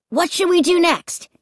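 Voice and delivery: put-on excited kid raring to go; grinning demand. A narrator's reading. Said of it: "he demanded, grinning".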